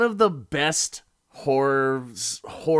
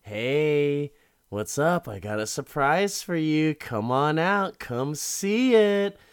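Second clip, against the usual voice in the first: higher, louder sing-song coaxing, slowing at the end; Shining-style coaxing killer; 4 semitones higher, 4 dB louder than usual. Retold or imitated. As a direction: lure her out like a madman. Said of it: "Richard is just full on Shining now".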